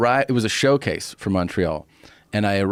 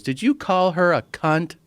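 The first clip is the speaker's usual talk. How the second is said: affronted confrontation; 8 semitones higher than usual. Retold or imitated. Friend confronting comic, retold.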